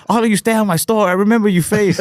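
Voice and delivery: high, put-on shopkeeper voice, pissed off; mock accent, pitched high and pissed; angry mock Asian accent. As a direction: imitate the comic getting angry. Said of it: "he's like".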